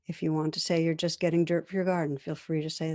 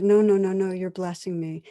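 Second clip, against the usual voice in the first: a louder, earnest burst of no, no, no; emphatic protest; 5 dB louder than usual. Retold or imitated. Woman to the weeping stranger, louder and earnest. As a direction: insist warmly that he is blessing her.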